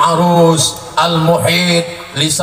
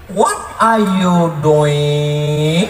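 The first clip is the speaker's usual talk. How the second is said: mock English; much slower than usual. Mock English, no length difference.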